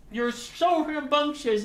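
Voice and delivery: slow, high cooing, stress on so; slow high pet voice, "so" stretched; doting pet talk. Real, not acted. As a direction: lean on "so" while cooing. Cooing at the dog.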